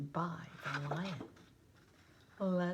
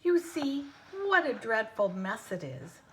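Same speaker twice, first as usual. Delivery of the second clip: complaining lion; 3 semitones higher, 6 dB louder than usual. Acted. Lion complaining about mane.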